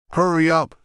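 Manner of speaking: sharp, high barked order; curt order. Acted. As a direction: bark it at the captives. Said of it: "the Aussie ordered".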